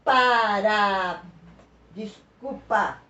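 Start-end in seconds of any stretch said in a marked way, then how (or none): 0.0-1.2 Para stretched slowly into pa-ra; slow, separated Para, as the start of a demonstrated word; syllable-by-syllable demo. Shown as a demonstration. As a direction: draw out each syllable of Para. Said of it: "última sílaba mais forte".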